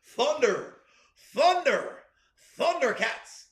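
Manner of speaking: lightly mock heroic rallying call; playful rendition of a hero's chant; cartoon battle cry. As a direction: call out each word separately, rising then falling.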